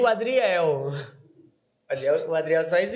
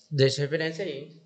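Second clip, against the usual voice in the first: choking on a drink. Real, not acted. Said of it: "Nossa, eu engasguei".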